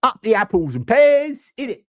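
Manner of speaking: hammed-up bad Cockney, very high; an American's awful Cockney, "pears" held long and high; Dick Van Dyke. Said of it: "Can I do a Dick Van Dyke?".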